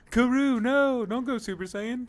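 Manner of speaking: high, loud anime hero plea; overacted anime dub. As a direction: yell like a dramatic anime scene. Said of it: "it sounds like an anime character".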